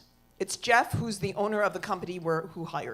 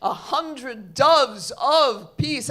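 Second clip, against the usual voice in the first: lightly voiced Santa making a proclamation; slow right down on the gift, grandly; a hint of ceremonial Santa; 2 semitones lower than usual. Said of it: "And he says".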